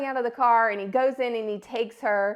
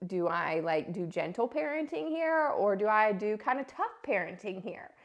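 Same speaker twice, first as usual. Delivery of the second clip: inner thought; 6 dB quieter than usual. Retold or imitated. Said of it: "And I'm like".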